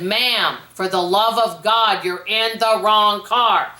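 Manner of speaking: slow, drawn-out exasperated plea; exasperated stranger. Retold or imitated. Stranger finally gets through to chatty woman, slow and exasperated. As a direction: spell it out slowly, patience gone. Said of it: "And then finally he said".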